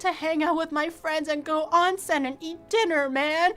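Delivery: mock plaintive whine; a touch of a doe-eyed whimper; lightly whined wish to hang out; whiny lament. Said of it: "doe-eyed and just like".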